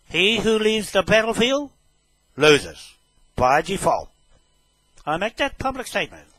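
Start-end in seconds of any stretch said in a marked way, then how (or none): 0.1-4.1 higher, much louder pronouncement; loud proclamation. Real, not acted. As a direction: declare it like a ruling from the throne. Proclaims a maxim at the trespasser.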